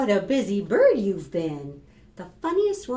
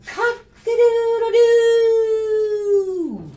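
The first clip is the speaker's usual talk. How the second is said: long, high, loud rooster crow; 13 semitones higher, 11 dB louder, much slower than usual. Acted. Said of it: "what the rooster says".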